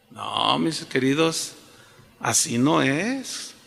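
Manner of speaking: slow down and correct them tenderly; gentle correction. Real, not acted. Pastor correcting his dear congregation, slow and gentle.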